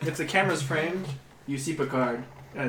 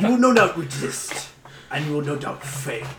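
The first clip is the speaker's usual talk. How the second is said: ominous hooded stranger; 5 dB louder than usual. Acted. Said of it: "Valdor says".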